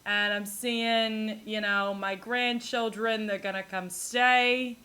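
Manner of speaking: light imitation of a Long Island grandma; a hint of a chatty Long Island grandmother. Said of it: "They're like".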